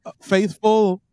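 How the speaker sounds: booming king's proclamation; warm regal boom. Acted. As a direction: play a jolly old king greeting his subjects. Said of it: "It's me, jolly old King Winchellus".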